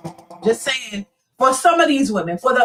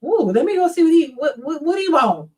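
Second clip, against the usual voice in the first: flattered woman; 3 semitones higher than usual. Retold or imitated. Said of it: "they're like".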